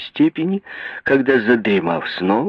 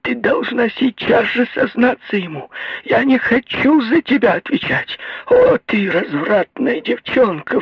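much higher, crying shriek, slowing at the end; wild scream; 10 semitones higher, slower than usual. A narrator's reading. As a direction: scream the accusations hysterically. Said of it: "дико закричала".

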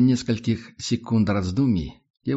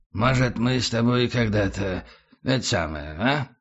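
put-on drunk voice. Tramp keeps talking drunk.

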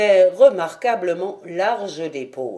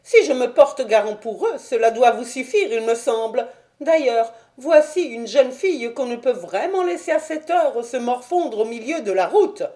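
high-pitched pleading protest; high, affronted little gentleman; Thaddeus, indignant; 5 semitones higher, 4 dB louder than usual. Acted. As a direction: argue with the doorman in a high voice. Voices Thaddeus arguing.

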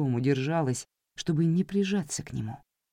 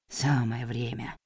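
медленно, с ворчанием; проворчать себе под нос; ворчливо; 2 semitones lower, 4 dB quieter than usual. Acted. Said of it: "проворчал Уолтер". (медленно ворчит)

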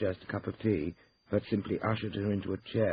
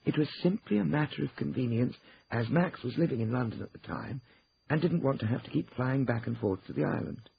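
higher-pitched voice of a client justifying herself; Ruth explaining herself; 8 semitones higher than usual. Acted. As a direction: explain it to the lawyers. Ruth justifies her choice.

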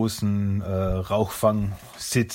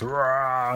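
mock monster roar; 4 semitones higher than usual.

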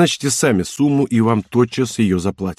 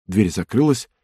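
ordinary delivery, nothing marked

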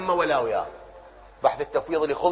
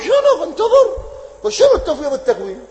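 laughing retort; 12 semitones higher, 7 dB louder than usual. Real, not acted.

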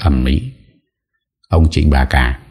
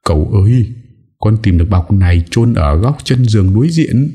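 put-on higher servant boy calling to his master, mildly raised; 5 semitones higher than usual. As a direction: call out eagerly to the young master. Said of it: "thằng Núi đã hét toáng lên". (giọng đầy tớ gọi to)

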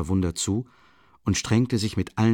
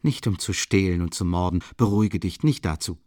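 sneering with a mocking smile; a cutting, mocking reassurance; mocking smile, biting tone; biting mockery. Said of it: "mit bissigem Spottlächeln".

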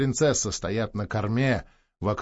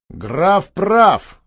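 curt, higher and louder cut-in; sharp retort; 6 semitones higher, 8 dB louder than usual. Acted. Damansky sharply siding with the count. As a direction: snap the words out. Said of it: "резко сказал Даманский".

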